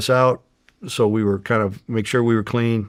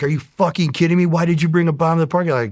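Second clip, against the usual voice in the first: higher, louder, fast incredulous outburst; shocked disbelief; 8 semitones higher, 5 dB louder, faster than usual. Retold or imitated. FBI desk guy shocked at a bomb downstairs, loud disbelief. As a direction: react like someone just parked a bomb outside.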